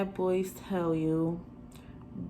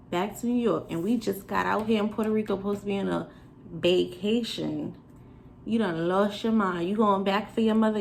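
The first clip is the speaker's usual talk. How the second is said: heated rant. Retold or imitated. Furious rant at boyfriend.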